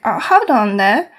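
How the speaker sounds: loud Cockney chef calling a halt; broken Cockney accent. Acted. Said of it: "Cockney, like, Englishy, a-, like, broken accent".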